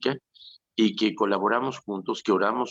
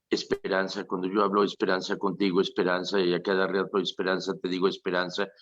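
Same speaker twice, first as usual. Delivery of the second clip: nagging repetition; faster than usual. Retold or imitated. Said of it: "actitudes histéricas".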